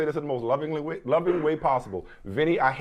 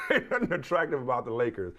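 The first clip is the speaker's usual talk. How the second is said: laughing; 2 semitones lower than usual. Real, not acted. Laughs through the jab.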